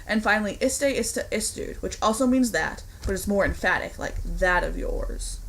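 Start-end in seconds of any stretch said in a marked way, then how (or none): 4.2-5.4 slow, scornful "That of yours."; contemptuous. Shown as a demonstration. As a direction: sneer it out slowly. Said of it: "used with contemptuous force".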